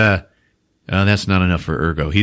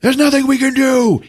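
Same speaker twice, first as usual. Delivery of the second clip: high resigned reply. Retold or imitated. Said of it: "Alan's like".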